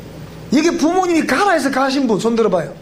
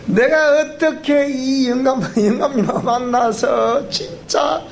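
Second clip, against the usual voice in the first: slow Gyeongsang dialect complaint, rising to a high cry; a Gyeongsang grandma drawing out her lifelong struggle; 3 semitones higher than usual. Retold or imitated. Old woman explaining she finally reformed her husband, slow Gyeongsang dialect. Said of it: "우리 경상도 버전으로 얘기하겠습니다".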